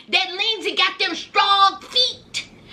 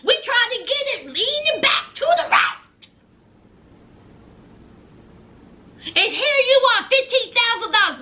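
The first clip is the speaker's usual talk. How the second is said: higher-pitched, rapid-fire confrontation; mock an aggrieved partner having it out; indignant girlfriend; 5 semitones higher, faster than usual. Voices Lindsay confronting Blaine.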